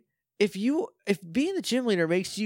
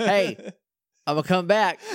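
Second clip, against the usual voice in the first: Goldar voice; 3 semitones higher, 3 dB louder than usual. Pretend. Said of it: "Like a Turtonator says".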